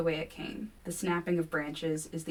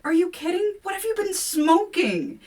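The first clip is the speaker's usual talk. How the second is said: much higher, louder disbelief; incredulous outburst; 13 semitones higher, 7 dB louder than usual. A narrator's reading. Kevin scoffing at William, high loud disbelief. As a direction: throw the disbelief at her.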